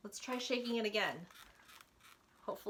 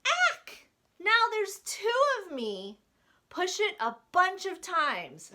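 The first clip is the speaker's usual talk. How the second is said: high, loud startled cry, then eager; surprised Larry; 8 semitones higher, 7 dB louder, slower than usual. Acted. Larry startled as he turns yellow, high and loud. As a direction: gasp at turning yellow, then beg for more.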